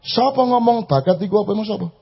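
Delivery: voicing an angry God. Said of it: "Soalnya kan Allah marah itu".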